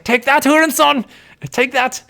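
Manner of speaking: high mock-angry taunt; imagined player's battle cry. Commentator voices the player striking back, high mock fury. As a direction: hurl it as the fighting player. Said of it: "It's like".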